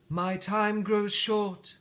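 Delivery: high, very slow and hollow-sounding; slow spirit voice. Acted. Spirit warns Scrooge time is short, slow. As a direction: stretch the words as time runs out.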